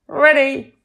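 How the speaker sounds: high, loud eager answer; eager shout. Acted. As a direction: shout it back keenly. Kids shout their answer.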